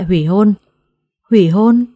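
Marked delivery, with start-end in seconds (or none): 1.3-1.8 louder, taken-aback question; startled echo question. A narrator's reading. Girl and her mother question the demand, startled. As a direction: echo HỦY HÔN back in disbelief. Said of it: "đồng thanh hỏi ngược lại".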